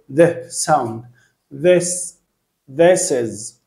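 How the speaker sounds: "This" with the tongue out, slow and careful; th demo. Shown as a demonstration. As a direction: model the th in "This" clearly. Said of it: "تطلع لسانك".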